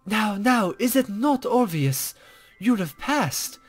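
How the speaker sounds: a hint of a coy, teasing sage; lightly voiced mysterious guide.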